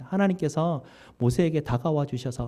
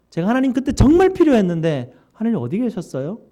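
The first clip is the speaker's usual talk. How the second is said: louder, higher, aggrieved questioning; Moses accusing God; 4 semitones higher, 5 dB louder than usual. Acted. Preacher voicing Moses reproaching God, aggrieved loud questioning. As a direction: demand answers from God like a wounded servant.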